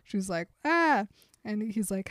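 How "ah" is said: sudden startled yelp, higher and louder; a hammed-up gasp of fright from the passenger seat; mock frightened yelp. Bella panicking at the speedometer, mock frightened yelp.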